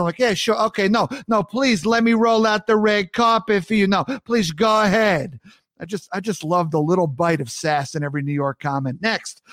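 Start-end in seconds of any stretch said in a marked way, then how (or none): 0.2-5.4 dripping mild sarcasm; sarcastic. Retold or imitated. New Yorker letting someone go first, sarcastic sass. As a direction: roll out the red carpet, sarcastically. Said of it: "there's always this bite of sarcasm".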